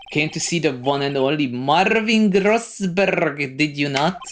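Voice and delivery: slow, hammed-up pompous lawyer; Marvin Grossberg. Grand lawyer introduces himself to visitor, pompous. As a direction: roll out the name with grand relish. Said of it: "Why am I talking like this?".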